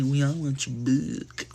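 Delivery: Cole quote. Retold or imitated. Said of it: "when he was like".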